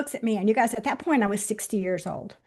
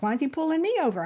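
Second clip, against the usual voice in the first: higher, quick puzzled question; retold bewilderment; 5 semitones higher, faster than usual. Driver asking herself why police stopped her, retold bewilderment. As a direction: replay your bewildered inner voice. Puzzled on being pulled over.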